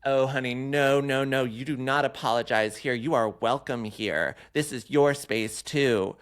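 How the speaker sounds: put-on high, gushing drunk queen voice; drunk gay guy. Drunk clubgoer gushing to a woman in line, high and fawning. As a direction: swoop up high and gush like a tipsy club queen. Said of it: "drunk boots gay was like".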